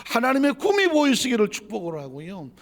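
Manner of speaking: loud, high preaching at full force; fervent blessing. Real, not acted. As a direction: proclaim the blessing over the congregation.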